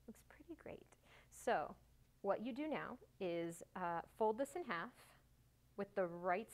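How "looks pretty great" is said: soft, high near-whisper; hushed, lifted murmur of approval; admiring aside. Real, not acted. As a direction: repeat it quietly to yourself, pleased. Repeats approval to herself.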